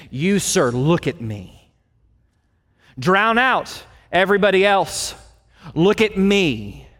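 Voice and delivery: slow, firm order, each word set down; urgent command. Shown as a demonstration. Peter ordering the beggar, urgent command. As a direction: demand his full attention. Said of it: "It is of urgent command".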